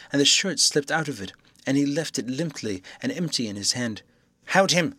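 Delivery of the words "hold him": a raised call to hold him; loud. A narrator's reading. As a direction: call out loudly. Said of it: "said Jaffers loudly".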